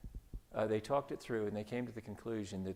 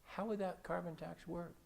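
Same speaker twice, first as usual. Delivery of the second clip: talk show host; 7 semitones higher than usual. Retold or imitated. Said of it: "That same talk show host saying to me".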